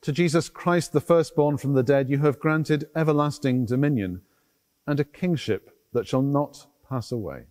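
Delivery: measured, solemn collect read at a steady pace; formal church prayer voice; liturgical prayer. Acted. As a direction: pray it aloud for the whole congregation, unhurried. Priest reads the collect.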